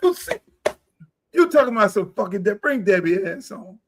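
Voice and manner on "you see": loud, high, thrilled shouting; real excitement, high and loud; excited. Real, not acted. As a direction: whoop at the screen, pumped up. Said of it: "I'm getting excited".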